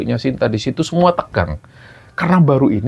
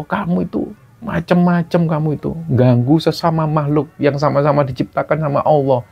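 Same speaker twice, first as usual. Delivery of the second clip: angry scolding; 4 semitones higher than usual. Retold or imitated. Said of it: "Pak Sarul itu marah, bentak".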